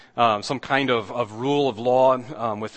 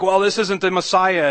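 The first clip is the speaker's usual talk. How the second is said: higher, louder scoffing quote; mock scoffing denial; 7 semitones higher, 6 dB louder than usual. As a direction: scoff at the idea, loudly. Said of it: "They're like".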